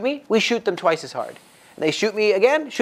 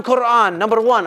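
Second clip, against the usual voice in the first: put-on much higher and louder, boasting in a broken English Arab accent; Arab driver's accent; 6 semitones higher, 5 dB louder than usual. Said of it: "I'm trying to do his accent".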